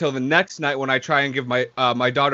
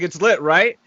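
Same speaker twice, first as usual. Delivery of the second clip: yelled; 3 semitones higher, 3 dB louder, slower than usual. Retold or imitated. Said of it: "I yelled at him".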